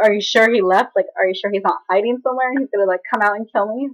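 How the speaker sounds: mildly overdramatic worried questioning; being dramatic. Retold or imitated. Granddaughter still hiding asks grandma, mildly dramatic. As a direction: re-enact your own exaggerated suspicion, lightly. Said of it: "I was being so dramatic".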